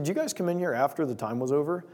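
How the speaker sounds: very calm. Retold or imitated. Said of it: "he just says very calmly".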